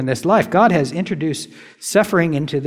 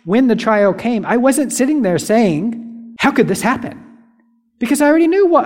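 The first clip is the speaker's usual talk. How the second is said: higher-pitched, insistent preaching; impassioned preaching; 5 semitones higher than usual. Real, not acted. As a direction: press each rhetorical question on the congregation. Impassioned preaching, rhetorical questions.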